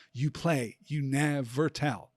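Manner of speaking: "You play, you never tell" syllable by syllable, every second one stressed; iambic scansion. Shown as a demonstration. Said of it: "three pairs of unstressed and stressed syllables".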